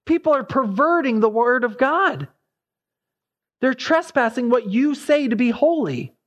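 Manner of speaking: mock shriek. Habakkuk protests to God about disobedience, mildly shrieking. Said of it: "I shriek out and say".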